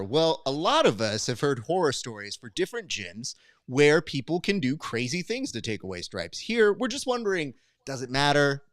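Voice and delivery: upbeat podcast host reading out the next topic; host intro read. Acted. Host showing the co-host how to open the topic, read as a show intro.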